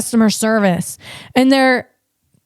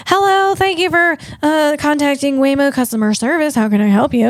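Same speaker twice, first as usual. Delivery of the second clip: chirpy customer service. Retold or imitated. Imitating a chirpy Waymo customer service agent answering the call. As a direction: put on a perky call-centre greeting. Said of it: "like, all chirpy".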